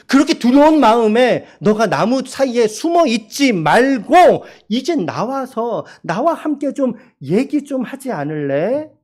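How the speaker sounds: ordinary talk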